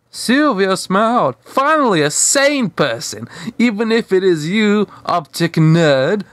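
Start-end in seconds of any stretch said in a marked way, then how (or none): 1.4-6.2 teasing. Acted. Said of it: "she teased".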